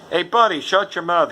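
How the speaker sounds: tough guy. Retold or imitated. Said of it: "He's like".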